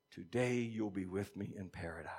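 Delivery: soft unvoiced whisper of comfort; whispered promise. Preacher whispers Jesus' words to the thief. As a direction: hush it, a secret promise.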